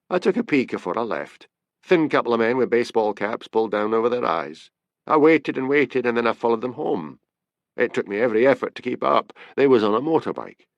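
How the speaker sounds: animated Scots storyteller with overheard quotes; a hint of a Scottish tipster, eagerly recounting; lightly voiced Scottish informant. Informant continues his account.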